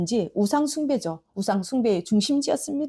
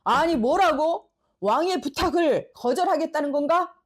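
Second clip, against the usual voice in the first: a hint of an affronted king, slightly raised; indignant king; 4 semitones higher than usual. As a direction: stiffen with offended surprise. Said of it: "아합의 얼굴이 굳어졌습니다".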